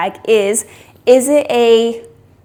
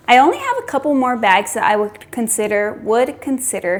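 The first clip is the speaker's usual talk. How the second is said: talking around a tray in the mouth; muffled words round a mouth tray; mouth full. Real, not acted. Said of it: "learning to talk with this tray in my mouth".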